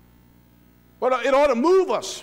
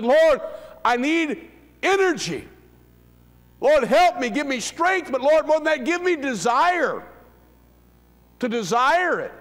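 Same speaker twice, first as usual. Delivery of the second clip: retold earnest prayer; 3 semitones higher than usual. Preacher retelling his private prayer to the Lord, earnest plea. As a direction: cry out to God for desire. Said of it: "and I've said".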